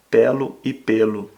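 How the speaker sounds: "Pelo" with open é like pélo, then "pelo" with closed ê like pêlo. Shown as a demonstration. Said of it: "Pelo é o verbo e pelo é o substantivo".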